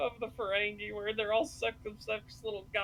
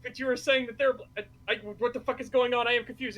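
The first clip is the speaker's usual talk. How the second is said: louder, rushing, baffled; a retold custodian losing the thread, louder and quicker; mock confused outburst; 3 semitones higher, 6 dB louder, faster than usual. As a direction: stumble through it like he can't follow. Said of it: "He's like".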